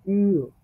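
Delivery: ইউ sounded from inside, lips spread; light inner ইউ; German ü. Shown as a demonstration. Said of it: "ভিতর থেকে sound দিবেন".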